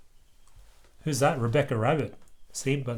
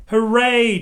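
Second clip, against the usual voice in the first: high, louder hooray; cheer; 9 semitones higher, 8 dB louder than usual. Acted. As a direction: cheer like excited kids. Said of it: "cheered the children".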